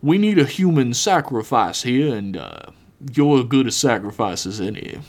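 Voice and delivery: lightly voiced, casually callous villain; a hint of an offhand evil boss; smug villain Billiams. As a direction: explain the sacrifice as if it were nothing.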